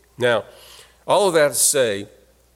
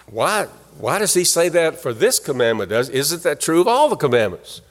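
imagined objector; 3 semitones higher than usual. Retold or imitated. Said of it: "You might think".

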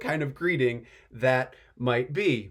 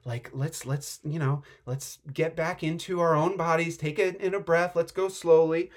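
soothing angel. Pretend. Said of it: "the angel's like".

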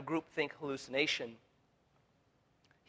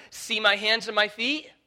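Jesus' invitation, raised; 8 semitones higher, 11 dB louder than usual. Acted. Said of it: "you see how he goes further?".

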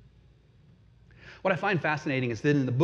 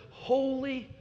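high, hushed call that falls away; soft, reverent calling with pauses; seraphim calling out; 7 semitones higher, 7 dB quieter, slower than usual. Retold or imitated. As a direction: draw out each word, softer on the last. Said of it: "here they call out to one another".

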